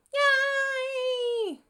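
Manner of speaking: very high, loud cheer of relief; excited cheer. Real, not acted. Host cheering when the frozen stream comes back.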